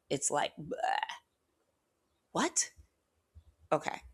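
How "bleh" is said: a strangled little bleh, no words coming out; mock-stunned bleh; speechless blurt. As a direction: choke on the word like you're stunned silent. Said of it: "words will not come out".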